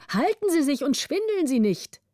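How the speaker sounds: calling out. A narrator's reading. Men warn the councillor on the shaking bridge, urgent call. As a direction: call a warning across to him. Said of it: "riefen die hinter ihm".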